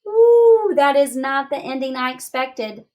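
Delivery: a surprised high ooh, then inner voice; be caught off guard; thinking voice. Acted. Teacher voicing her surprised thinking voice, high ooh. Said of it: "My thinking voice is saying".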